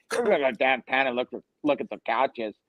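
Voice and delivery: imitating a buddy's Pittsburgh Yinzer accent; quick, lightly put-on Yinzer talk; retold in a mock Pittsburgh Yinzer accent. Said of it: "he could do the Yinzer accents".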